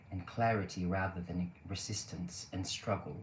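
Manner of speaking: UK accent. Shown as a demonstration. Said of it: "my U K accent's like this".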